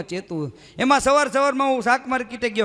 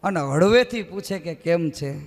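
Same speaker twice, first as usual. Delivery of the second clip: poem recital. Shown as a demonstration. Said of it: "ચાર લીટી ગમે છે".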